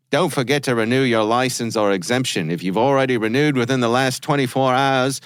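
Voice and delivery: put-on a light, mixed-up Australian New Zealand accent read; mild mock Australian accent reading a scam email; bad Australian New Zealand accent. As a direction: read the email in a hammed-up Australian Kiwi mishmash. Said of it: "I'm going to do bad Australian, New Zealand mishmash".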